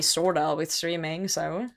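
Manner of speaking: ordinary talk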